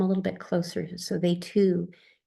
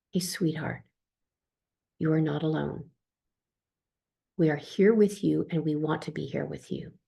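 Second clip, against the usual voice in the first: reassuring; 2 semitones lower than usual. Retold or imitated. Soothing baby-like client.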